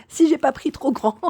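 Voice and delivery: high, loud, laughing through the words. Real, not acted. Vlogger wondering if she bought too big, laughing. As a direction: giggle at your own possible blunder. Giggling over possibly wrong size.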